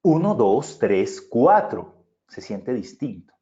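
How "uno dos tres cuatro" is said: counting with the voice pushed from the diaphragm; diaphragm-supported projection; projected from the diaphragm. Shown as a demonstration. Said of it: "La diferencia es esta".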